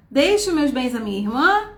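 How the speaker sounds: "Deixo meus bens à minha irmã?" with a rising question tune at the end; read as a question. Shown as a demonstration. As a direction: ask it, letting "irmã" rise. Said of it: "Interrogação".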